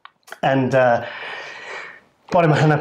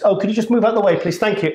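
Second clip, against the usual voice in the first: polite request; 5 semitones higher, faster than usual. Retold or imitated. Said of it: "politely asking people".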